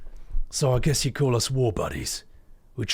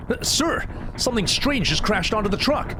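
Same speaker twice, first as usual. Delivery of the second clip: put-on young voice; 10 semitones higher than usual. Young soldier alarmed.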